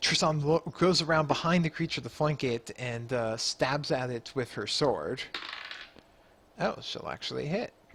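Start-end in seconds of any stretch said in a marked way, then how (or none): 6.6-7.7 astonished, surprised, caught-off-guard tone. Narrating a fight for the group, the speaker reacts, surprised. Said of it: "You sound surprised".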